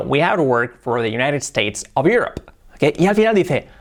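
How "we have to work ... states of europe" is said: "have to work" run together; smoothly linked "We have to work"; linked English. Shown as a demonstration. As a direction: model "United States of Europe" as connected speech. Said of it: "Cambia mucho diciéndolo".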